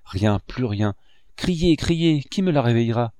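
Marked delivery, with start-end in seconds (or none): 1.4-3.1 cri aigu d'un vieil homme affolé; cri désespéré. Acted. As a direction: appeler au secours, dans la panique. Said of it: "s'écria monsieur Léonard". (le vieux peintre crie devant sa nièce immobile, affolé)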